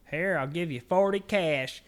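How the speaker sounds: lightly mocked customer offer; mocking customer. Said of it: "He's like".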